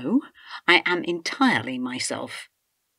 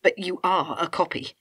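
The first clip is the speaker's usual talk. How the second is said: louder, hard accusation with stress on are; 3 semitones higher, 5 dB louder than usual. Acted. Wife accusing her husband of being a robot, forceful. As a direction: declare it like a verdict.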